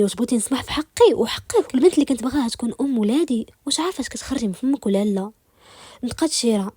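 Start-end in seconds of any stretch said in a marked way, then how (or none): 0.0-5.3 mildly heated, pitch lifting on the protest; agitated. Acted. A man objecting to giving up the woman he loves, agitated. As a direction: protest with a touch of anger. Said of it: "نطق ألين بعصبية".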